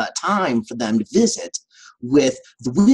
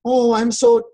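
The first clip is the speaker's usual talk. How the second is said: lightly voiced timid lion, slowing down; a mild hint of a frightened lion; scared lion; 5 semitones higher than usual. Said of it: "he's like".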